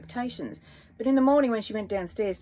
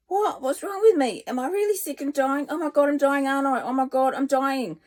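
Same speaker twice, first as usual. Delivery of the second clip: high, louder, rising panic; panicking; 7 semitones higher, 5 dB louder than usual. A narrator's reading. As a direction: spiral into fear of dying. Patient panics at doctor's news.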